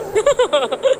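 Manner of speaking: high-pitched burst of laughter. Real, not acted. Laughs after objecting. (ऊँची आवाज़ में हँसी)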